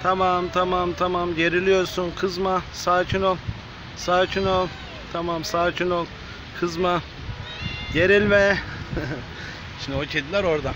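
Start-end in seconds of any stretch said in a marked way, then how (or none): 0.0-8.6 steady, drawn-out calming repetition; soothing a cat. Real, not acted. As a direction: talk a tense animal down, evenly. Calming a tense, growling cat. (sakinleştirici, yatıştıran bir sesle)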